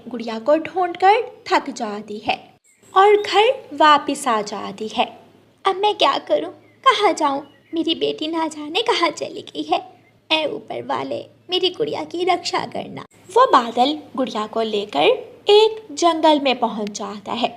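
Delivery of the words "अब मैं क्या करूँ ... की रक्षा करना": higher distressed mother bird; worried mother. Acted. Mother bird praying for Gudiya's safety, mild distress. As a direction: pray anxiously for her lost child.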